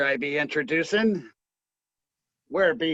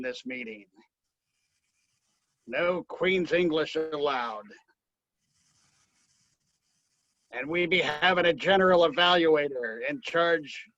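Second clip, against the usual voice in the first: put-on pirate accent. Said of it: "we be talking like pirates today".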